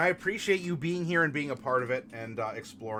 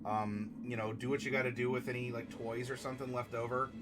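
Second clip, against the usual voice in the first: gentle condolence; 3 semitones lower, 6 dB quieter than usual. Real, not acted. Consoling Clicker over his cat, soft sincere comfort. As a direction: speak softly to a grieving friend.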